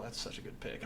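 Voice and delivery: whispered to himself. Real, not acted. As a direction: hush it, pleased. Self-satisfied aside.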